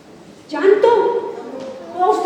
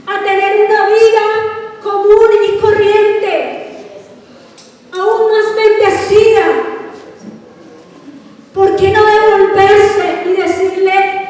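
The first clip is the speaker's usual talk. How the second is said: louder, pressing sermon; fiery preaching; 4 dB louder than usual. Real, not acted. Pastor rousing the congregation, louder and pressing. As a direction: drive it home to the church.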